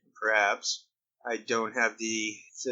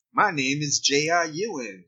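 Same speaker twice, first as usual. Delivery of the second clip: Irish friends mocking a Texan, in a light Texan accent; J R Ewing Texan accent; 3 semitones higher than usual. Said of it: "making fun of J R Ewing stuff".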